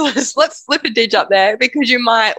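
laughter still breaking through; suppressed giggles mid-sentence; trying not to laugh. Real, not acted. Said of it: "I'm trying not to laugh".

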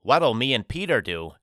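talking through a mouthful of cookie; words round a bite of cookie; mouth full. Acted. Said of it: "through a mouthful of cookie".

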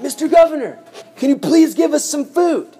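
high-pitched mock begging; pleading. Hungry brothers beg the governor for food, pleading.

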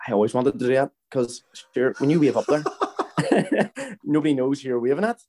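a retold quip, giggling as it comes out; chuckling while quoting dad; laughing through dad's line. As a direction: laugh your way through the punchline.

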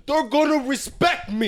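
slow, laughing mock swagger; mock tough guy. Friend mocks Luca's street justice, slow and laughing. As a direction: drag it out like a proud street-justice Italian. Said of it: "You're like".

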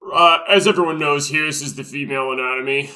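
a hint of a pompous lecturing doctor; doctor's lecture spiel. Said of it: "he's even got this little spiel down".

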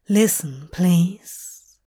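low, gentle plea; calm, low-voiced reassurance; reassuring. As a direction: soothe them, pitch dropped. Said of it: "he said assuringly".

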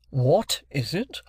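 slow, bewildered echo, rising at the end; at a loss. A narrator's reading. Wopsle eyes the paper, much at a loss. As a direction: repeat it as if stumped. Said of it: "much at a loss".

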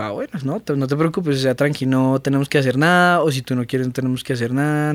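softly letting them off the hook; gentle reassurance. Retold or imitated. Telling partner there's no pressure, gently reassuring.

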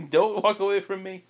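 high-pitched mom calling out, half laughing; a parent calling down the hall; calling after son. Retold or imitated.

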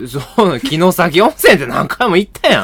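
mock complaint in Osaka dialect; high, loud Osaka objection; rough Osaka dialect. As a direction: play an impatient Osaka partner with a laugh. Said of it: "口悪い大阪弁みたいな".

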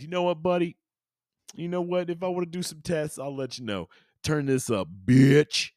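high-pitched sassy Ed voice; mock tough guy in a high voice; high mock defiance. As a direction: squeak it out, cocky and defiant. Ed defies aliens, acted.

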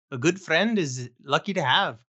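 lightly attempted Irish accent. Shown as a demonstration. Friend asked to show his own Irish accent, lightly done. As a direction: try a brief, modest Irish lilt. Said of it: "Let's hear your Irish accent".

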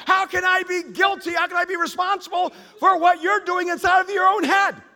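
loud, high, exasperated retold protest; hammed-up shout of disbelief at the wife; half-playful yelling to make the crowd laugh; mock exasperated shout. Retold marriage argument, shouting reply.

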